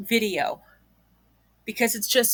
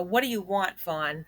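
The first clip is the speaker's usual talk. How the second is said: a fed-up mock of the mother's question; more like a; 5 dB quieter than usual. Critic mocking how the mother really asked her son, annoyed and softer. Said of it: "is more like a".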